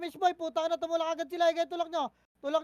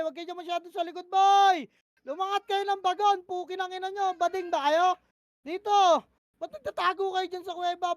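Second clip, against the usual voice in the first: angry yelling at team; 4 semitones higher, 6 dB louder than usual. Real, not acted. Teammates hiding, he yells insults.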